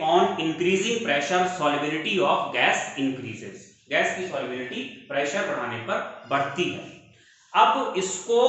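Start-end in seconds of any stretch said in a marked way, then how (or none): 0.1-3.7 very slow, word by word for note-taking; slow dictation. Shown as a demonstration. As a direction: dictate it slowly so students can write. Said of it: "आप यहां पे सीधे सीधे लिखेंगे".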